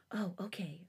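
soft, hushed reply; whisper. A narrator's reading. Narrator answering the girl, softly whispered. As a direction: drop to a whisper for the baby. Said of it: "I whisper".

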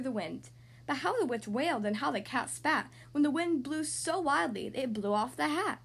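put-on lilting children's storybook reading; story narration. A narrator's reading. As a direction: read a rhyming tale to young children. Reads a picture book aloud.

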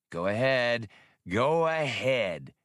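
slow, drawn-out mocking dare; taunting. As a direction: goad the warship, stretching the words. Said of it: "he taunted the mountainous destroyer".

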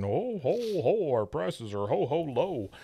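a jolly Santa boom, lightly done; retold as a hearty Santa. Santa on the store roof calling to shoppers, jolly. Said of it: "he's saying".

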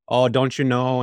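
lightly imitated Midwestern accent; hint of a folksy Fargo, Midwestern lilt. Quoting a travel nurse from Fargo, light Midwestern accent. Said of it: "she had a Midwestern accent".

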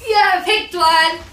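delighted high squeal; thrilled, burst out loud; excited. Real, not acted. Thrilled at picking a deck.

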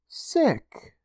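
high, eerie questioning; creepy amused echo; eerie vampire voice. Acted. Vampire librarian answering.

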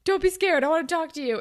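hammed-up high-pitched bad actor; Fitz. Imitating Fitz talking to Claire, overacted. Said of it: "he's a terrible actor".

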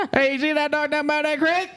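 joining the hick Utah bit, laughing; hick Utah accent. Pretend. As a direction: giggle through a hammed-up Utah hick. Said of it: "best hick Utah".

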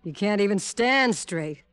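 taunting. Acted. Gloating over the drugged detective.

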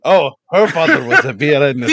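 laughing. Real, not acted. Laughing correction mid-monologue.

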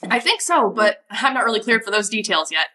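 lightly voiced young ranger, chipper and helpful; eager young ranger Riley. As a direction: keep Riley bright and eager to please. GM holds Riley voice.

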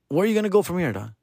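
ordinary delivery

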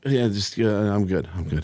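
mock sleepy brush-off; imitated sleepy kid. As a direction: mumble it half asleep, sinking away. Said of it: "two of them were already asleep".

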